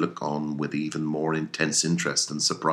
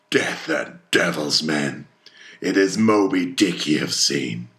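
emphatic, forceful captain's outburst; fierce exclamation; 4 dB louder than usual. Acted. Ahab tells his men which whale they have seen, fierce. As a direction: pound out the opening words.

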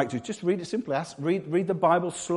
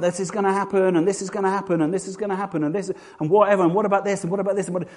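higher, run-on barrage of claims; agitated babble; 4 semitones higher, faster than usual. Acted. Preacher mimics end-times videos, agitated babble. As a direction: pile one claim on the next without stopping. Acted barrage of online prophecy voices.

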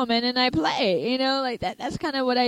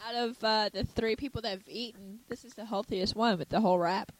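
talking while chewing; words round a bite of food; mouth full; 4 dB quieter than usual. Real, not acted. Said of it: "she's gonna be chewing a little bit".

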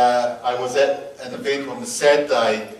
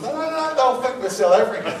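high-pitched mock insistence; playfully protesting in a raised pitch; insistent protest; 9 semitones higher than usual. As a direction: act out urgently arguing your point. Acted insisting to his wife.

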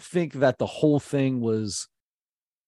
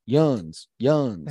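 Southern twang. Retold or imitated. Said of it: "with that twang".

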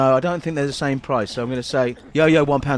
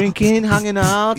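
high squeaky little creature; chirpy pitched-up vermin; 6 semitones higher, 4 dB louder, slower than usual. Acted. Vermin character.

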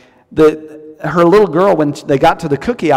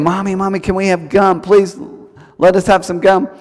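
put-on higher childlike pleading; little girl begging; 4 semitones higher than usual. Little girl begs mommy for gum, higher pleading voice. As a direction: beg like a small child.

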